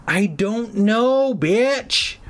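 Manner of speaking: hammed-up frustrated yell; screaming. Cooper losing it at Margaret, a mock scream. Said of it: "I screamed".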